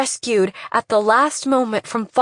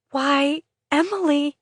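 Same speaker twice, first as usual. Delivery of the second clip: higher, piercing mother's cry; ear-splitting cry; 7 semitones higher than usual. Acted. Mother crying her daughter's name as she runs out, high and piercing. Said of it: "An ear-splitting voice".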